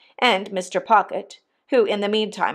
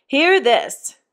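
raised, exasperated appeal; helpless exclamation; 6 semitones higher, 3 dB louder than usual. A narrator's reading. Mister Pocket exclaiming to the elements, helplessly exasperated. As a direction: appeal higher to the heavens. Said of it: "he helplessly exclaimed to the elements".

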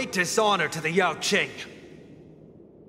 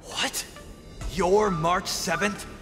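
startled disbelief; 4 semitones higher, slower than usual. Acted. Challenger finds the girl is the replacement ringmaster, startled disbelief. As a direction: question it slowly, pitch raised in surprise. Challenger learns who she is.

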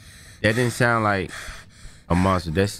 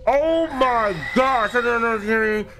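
shaken; 9 semitones higher than usual. Real, not acted. Shaken after scare.

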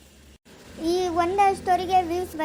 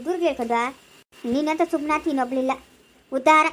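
harsh insults; 4 dB louder than usual. Acted. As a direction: tear into her with contempt. Angry woman insulting the girl. (ಕೀಳಾಗಿ ಬೈಯುವ ಕೋಪದ ಹೆಂಗಸು)

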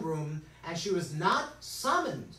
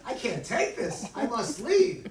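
flustered king; 4 semitones higher, 6 dB louder, slower than usual. Acted. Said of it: "the king says".

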